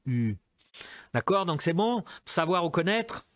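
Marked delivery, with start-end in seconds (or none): 0.0-0.4 "U" said as a rounded front /y/, lips pushed forward; French U sound. Shown as a demonstration. Teacher models "U" for Portuguese speakers as a rounded /y/. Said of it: "c'est difficile le U".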